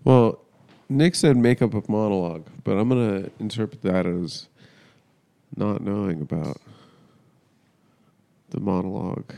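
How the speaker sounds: ordinary talk, nothing marked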